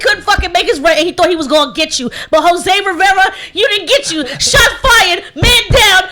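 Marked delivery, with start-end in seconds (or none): 2.3-6.0 mock the thief, cracking up; laughing hype taunt. Real, not acted. Radio host calls out the thief.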